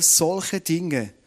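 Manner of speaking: "solche Dinge" drawn out very slowly for emphasis; slow right down and stress "solche Dinge". Shown as a demonstration. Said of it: "mit Betonung auf solche Dinge". ("solche Dinge" langsam und betont)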